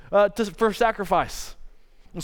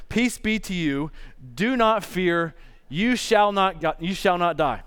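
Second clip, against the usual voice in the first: reassuring God; slower than usual. Retold or imitated. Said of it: "But the Lord said to him".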